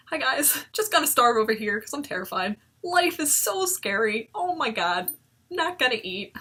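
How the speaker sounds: airy mock cheer, pitch up; mock chirpy. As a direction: play the eating disorder as a breezy friend. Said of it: "as my good old friend".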